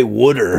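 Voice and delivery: "water" said as "wooder"; South Jersey "wooder" for water; regional "wooder". Shown as a demonstration. Showing how the region says it, local "wooder". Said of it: "the way we pronounce words in this region".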